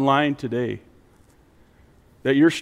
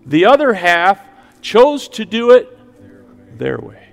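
slow preaching cadence with raised pitch; emphatic preaching; 6 semitones higher, 6 dB louder than usual. Acted. Preacher warning the congregation about the ten virgins, emphatic preaching. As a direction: press each phrase home, slow and emphatic.

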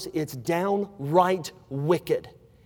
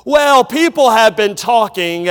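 gossip's hint; 3 semitones higher, 8 dB louder than usual. Retold or imitated. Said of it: "somebody's gonna come to you and say".

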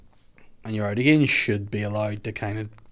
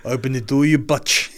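mock South African, bitch as butch; South African accent. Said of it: "these South Africans".

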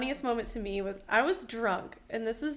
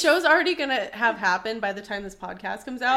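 giggly tickle attack; 6 dB louder than usual. Real, not acted. Laughing through the remark.

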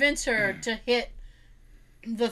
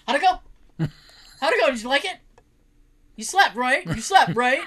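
eager pestering; 2 semitones higher, 6 dB louder than usual. Retold or imitated. Eager nephew pressing mom.

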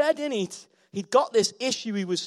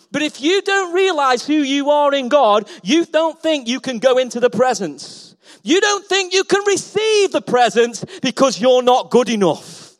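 loud, high sermon build; full-force preaching; 5 semitones higher, 7 dB louder than usual. Acted. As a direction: preach it out to the hall.

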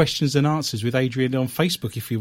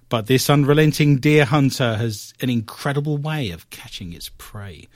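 lightly hammed old British newsreel read, falling phrase ends; old English British accent. Host continues squirrel report, mock old British newsreel accent. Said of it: "I'm gonna do this in an old English British accent".

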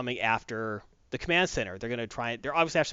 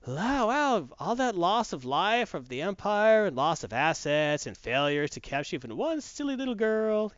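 mocking, condescending; 5 semitones higher than usual. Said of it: "condescending, mocking".

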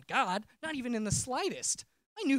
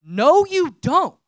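voice of God; 6 semitones higher, 15 dB louder, much slower than usual. Retold or imitated. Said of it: "the audible voice of God".

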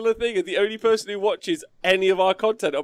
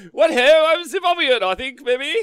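mock Zimbabwean accent; 6 semitones higher, 6 dB louder than usual. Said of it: "that colonial Zimbabwean accent".

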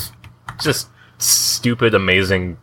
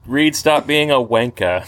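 slow, put-on British accent; badly faked British accent; mock British accent; 2 semitones higher, slower than usual. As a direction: scold a friend as a pretend Brit. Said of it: "you're trying to do a British accent".

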